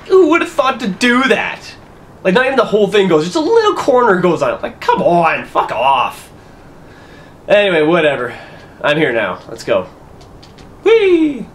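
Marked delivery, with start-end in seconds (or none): 0.1-6.3 high, fast incredulous rant; exasperated disbelief. Real, not acted. Exasperated at the puzzle solution. 10.8-11.5 high squeal of delight; gleeful whee. Real, not acted. Sliding down in the game.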